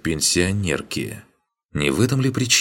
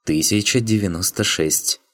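woman's correcting voice; 5 semitones higher than usual. Acted. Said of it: "поправила меня воительница".

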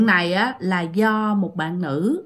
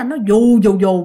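a rhythmic mock swoosh, a bit louder; imitating a swinging hammock; 2 semitones lower, 4 dB louder, slower than usual. Storyteller mimicking the hammock swinging hard. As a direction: pulse out the hammock's swing sound. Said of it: "Nó đưa mà bạn nói nha".

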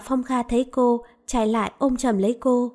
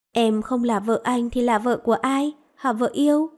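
put-on childlike coaxing. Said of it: "giọng như đứa trẻ, đầy nũng nịu".

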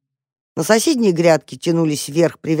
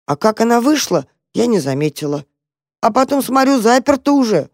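high cat voice; 5 semitones higher, 3 dB louder than usual. Acted. Cat explains getting trapped.

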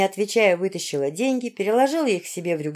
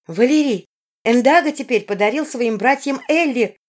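higher, louder urgent exclamation; exclaiming; 5 semitones higher, 4 dB louder than usual. A narrator's reading. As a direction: cry out the news urgently. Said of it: "воскликнула принцесса".

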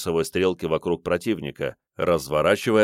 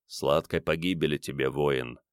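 whispering; 5 semitones lower, 6 dB quieter than usual. A narrator's reading. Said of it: "прошептал Риордан".

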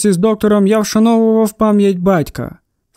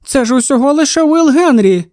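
big wife's voice; 5 semitones higher than usual. A narrator's reading. Wife voiced in the story.

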